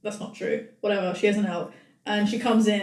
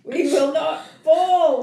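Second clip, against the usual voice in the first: slow, louder rallying cry; mock rallying speech; 3 semitones higher, 5 dB louder, slower than usual. Host rallies the women, mock-heroic speech. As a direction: declare it like a wartime leader.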